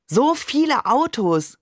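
high, drawn-out exclamation; amazed call. A narrator's reading. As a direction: call out slowly in wonder. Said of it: "rief ich".

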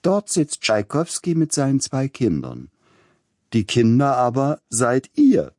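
put-on a lady instructing her little girl; Leipzig lady. A narrator's reading. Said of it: "sprach die Dame".

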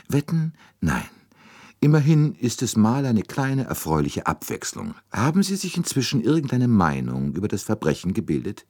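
höher, spöttisch amüsierter Detektiv; Poirot amüsiert. A narrator's reading. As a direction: den kleinen Belgier verschmitzt sprechen lassen. Poirot, amused, questioning. (Poirot neckt den Amerikaner, höher und verschmitzt)

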